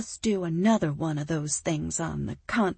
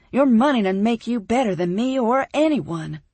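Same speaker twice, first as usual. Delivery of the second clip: louder, higher defiant reply; defiant retort; 5 semitones higher, 8 dB louder than usual. Acted. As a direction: push back hard at him. Heroine defiant to rich man.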